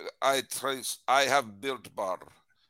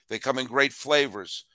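usual speaking voice

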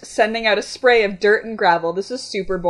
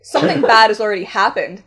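louder, theatrical angry retort; seething; 5 dB louder, faster than usual. Acted. Young man to his crying date, seething. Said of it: "the young man seethed".

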